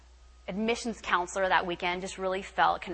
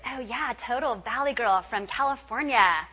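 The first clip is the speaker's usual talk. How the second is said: lightly put-on California Valley girl lilt; a hint of Valley girl; mock Valley girl accent; 3 semitones higher than usual. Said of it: "made fun of for the way that I spoke".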